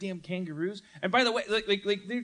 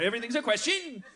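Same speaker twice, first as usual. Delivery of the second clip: higher pitch, QUESTION tipped upward; rising question intonation; 4 semitones higher, faster than usual. Shown as a demonstration. Comic correcting the accent, statement turned question on "question". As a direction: lift "question" as if asking. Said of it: "up at the end".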